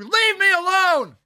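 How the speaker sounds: high, drawn-out mock yell; imitated yell. Householder cutting off the canvasser, mock yelling. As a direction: holler it slowly like an irritated householder. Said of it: "getting yelled at at people's doors".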